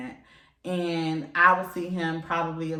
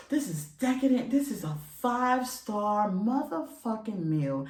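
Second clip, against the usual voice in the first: mock food critic; 3 semitones higher than usual. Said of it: "y'all would fucking be like".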